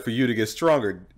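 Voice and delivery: a hint of Akuma's deep menace, imitating. Friends retelling a game villain's line, mock menace.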